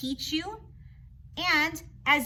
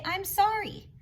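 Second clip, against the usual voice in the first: polite apology; 6 semitones higher than usual. Shown as a demonstration. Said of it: "use your manners and say".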